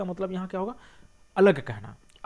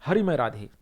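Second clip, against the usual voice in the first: answer from outside; 2 semitones lower, 6 dB louder than usual. Acted. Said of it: "तो बाहर से कहता है".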